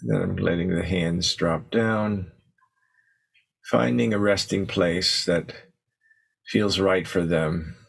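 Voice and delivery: unhurried meditation guidance with long pauses; guided meditation. Acted. Teacher settling the group into posture and breath, guided meditation. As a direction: ease them gently into stillness, leaving space between phrases.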